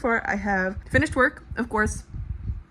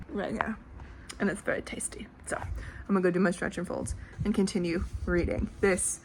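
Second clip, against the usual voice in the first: whisper; 2 semitones lower, 7 dB quieter than usual. Real, not acted. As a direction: drop to a real whisper, barely voiced. Whispering near sleeping baby.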